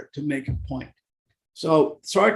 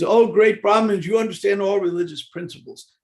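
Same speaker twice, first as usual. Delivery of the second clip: higher-pitched mock reverence; sarcastic flattery; 4 semitones higher, 4 dB louder than usual. Young boys to the Brahmins, sarcastic flattery. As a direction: praise them with exaggerated, sarcastic awe. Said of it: "That was sarcasm".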